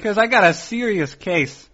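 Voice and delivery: talking through a mouthful; words round a bite of food; mouth full. Real, not acted. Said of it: "my mouth is full and has been for hours".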